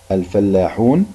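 الفلاحون with a drawn-out oo; long waw in الفلاحون. Shown as a demonstration. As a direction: hold the oo before the final n in الفلاحون. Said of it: "كلمات فيها مد بالواو". (مدّ الواو في الفلاحون)

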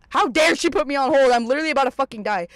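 mildly worked-up outrage, retold; mock outrage. Put on hold by mom mid-emergency, acting out indignation.

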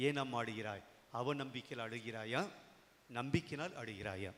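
low, softened, tender questions; gentle questioning. Acted. Voicing Jesus questioning the woman. (கனிவாக, தாழ்ந்த குரலில் கேட்பது)

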